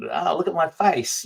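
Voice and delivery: mock show-off. Mock social media poser.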